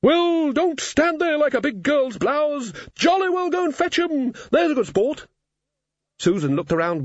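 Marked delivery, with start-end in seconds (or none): 0.0-5.3 booming hearty warrior woman; bossy games-mistress war maiden; Valkyrie voice. Acted. Valkyrie orders Susan about.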